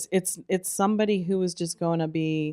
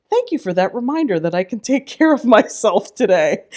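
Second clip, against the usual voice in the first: loud, bright mock gratitude; cheery mock thanks; 5 semitones higher, 9 dB louder than usual. Retold thanks to inner voice.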